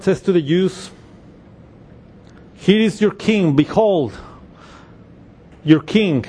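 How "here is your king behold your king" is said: mocking. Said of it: "making fun of them".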